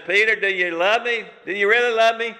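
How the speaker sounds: high, searching question; lightly voiced pleading Jesus. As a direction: press him gently, almost begging. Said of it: "And he says".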